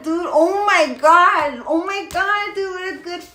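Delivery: real delighted oh my Gods; overjoyed. Real, not acted. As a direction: still riding the rush of joy. Still elated over suspension ending.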